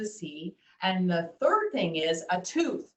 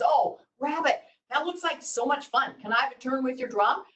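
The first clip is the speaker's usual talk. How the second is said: high, excited storybook fish; lightly acted childlike eagerness; eager Fish; 5 semitones higher, 3 dB louder than usual. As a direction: ask for a turn with pitched-up delight. Fish admires drum, begs a turn.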